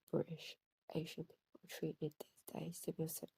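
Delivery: stumbling, repeating words while upset; stuttering. Real, not acted. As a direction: trip over the words, repeat them. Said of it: "I'm sorry I'm stuttering".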